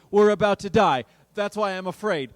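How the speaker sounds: loud outburst, easing at the end; exasperated protest. Acted. Soaked disciples to Jesus, exasperated. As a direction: argue back loudly.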